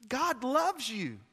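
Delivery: hushed slow reassurance; tender, slow. Real, not acted. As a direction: say it gently, like a promise. Preacher repeats the line softly.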